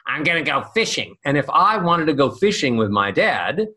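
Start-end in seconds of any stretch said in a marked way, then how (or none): 0.1-1.1 nasal, quick imitation of dad. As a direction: pinch it through the nose. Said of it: "spoke really nasally and talked like this".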